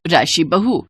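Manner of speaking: kindly elder instructing the new bride; mother-in-law. Acted. (हल्की आवाज़ में समझाती सास)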